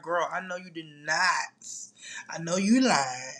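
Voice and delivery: teasing hushed whisper; mock whisper. Host teasing her viewers in a playful whisper.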